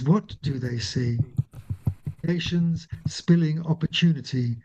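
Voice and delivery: measured, deliberate poem recital; poetry reading. Acted. Reads her poem aloud.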